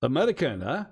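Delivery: put-on loud, high-pitched Russian accent. Stranger stops two Americans to talk baseball, loud Russian accent. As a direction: greet them in a put-on Russian accent, voice jumping up. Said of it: "I'm doing a Russian accent".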